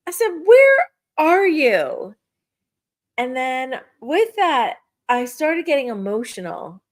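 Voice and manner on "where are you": high, slow, longing call to the air. Retold or imitated. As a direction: stretch it out like calling someone who's gone. Calling out to late father.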